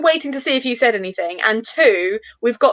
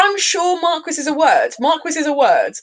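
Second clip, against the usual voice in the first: higher, insistent protest to oneself; mock put-out insistence, pitched up; indignant self-impression; 4 semitones higher than usual. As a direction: re-enact stubbornly insisting you're right. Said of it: "I'm gonna do an exact impression of, like, how I read your comment yesterday".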